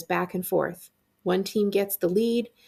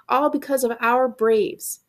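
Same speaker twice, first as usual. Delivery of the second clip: slow, loud, high exultation; triumphant; 5 semitones higher, 4 dB louder than usual. Acted. Fan celebrating the winning kick, exultant. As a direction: savor the victory proudly.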